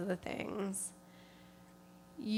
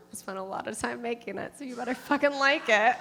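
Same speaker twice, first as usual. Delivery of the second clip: playful threat; 3 dB louder, faster than usual. Real, not acted. Mock threat about slide.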